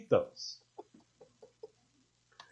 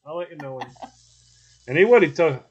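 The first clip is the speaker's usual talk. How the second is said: grandpa at the grill; 5 semitones higher than usual. Retold or imitated. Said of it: "He'd go".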